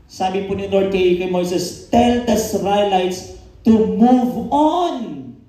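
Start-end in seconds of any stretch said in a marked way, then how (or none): 1.9-5.4 very slow, solemn command; voice of God. Acted. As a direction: speak it as God giving an order. The Lord commanding Moses. (mabagal at taimtim na utos ng Panginoon)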